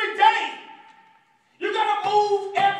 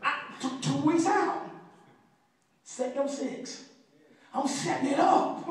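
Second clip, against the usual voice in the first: halting, soft and low climb-down; mock-humbled reply after bragging; meek compliance; 5 semitones lower, 5 dB quieter than usual. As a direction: deflate into a small, hesitant voice. Meek follow-up after the boast.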